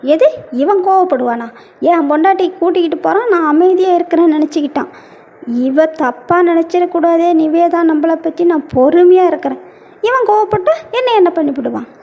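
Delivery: a rushed grumbling aside, half to himself; fast muttered aside. Acted. Jealous husband grumbles fast to himself about the rival. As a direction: rattle it off fast under your breath.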